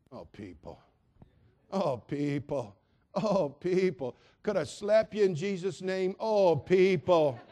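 lamenting sigh. Acted. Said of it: "lament refrain repeated".

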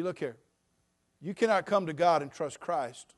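ordinary talk, nothing marked

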